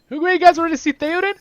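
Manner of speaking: fast, loud, high hype call; rally the viewers, bursting with excitement; excited hype. Real, not acted. Streamer hyping viewers about the new commander, loud and fast.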